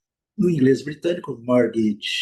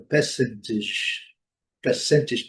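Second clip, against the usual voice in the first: percentage in British English, R silent; much slower than usual. Shown as a demonstration. Teacher models British English without R, British pronunciation. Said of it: "No inglês britânico".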